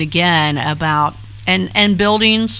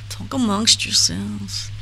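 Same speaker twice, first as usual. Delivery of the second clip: slow, drawn-out mock Jewish accent; attempted Jewish accent; 3 semitones higher, 4 dB quieter, slower than usual. Repeating a line to the chat, attempted Jewish accent. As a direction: have a poor go at a Jewish accent, taking it slowly. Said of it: "I can't do a Jewish accent".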